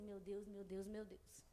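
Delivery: soft, fretful "Meu Deus" murmured over and over; anxious lament. Retold or imitated. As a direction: moan it in worry instead of praying. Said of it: "Eu só fiquei assim".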